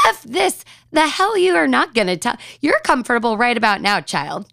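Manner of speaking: high, hammed-up inner outrage; mock indignation. Mother silently arguing with her seven-year-old, mock indignant.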